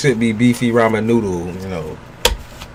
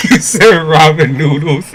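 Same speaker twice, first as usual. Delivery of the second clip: laughing at the word; 4 semitones higher, 6 dB louder than usual. Real, not acted.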